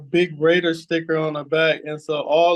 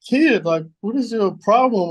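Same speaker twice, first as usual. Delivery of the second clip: higher-pitched imitation of an exasperated cop; mock scolding; 5 semitones higher, 3 dB louder than usual. Police officer to speeding young driver, mock scolding. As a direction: lightly mimic an officer telling someone off.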